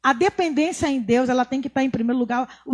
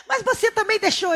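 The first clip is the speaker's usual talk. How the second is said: laughing retort; 9 semitones higher than usual. Retold or imitated. Husband's retort again, laughing.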